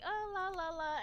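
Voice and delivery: flirty oh la la. Retold or imitated. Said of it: "and I'm like".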